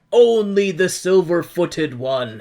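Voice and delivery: guard voice. Retold or imitated. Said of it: "the Golden Guards are like".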